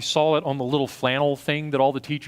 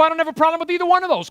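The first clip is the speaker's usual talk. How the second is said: mock congregant; 13 semitones higher, much faster than usual. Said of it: "You go".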